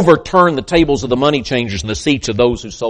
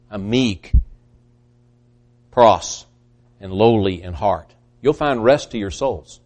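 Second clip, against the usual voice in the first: gentle invitation; 4 semitones lower, 3 dB quieter than usual. Acted. Jesus inviting the weary gently.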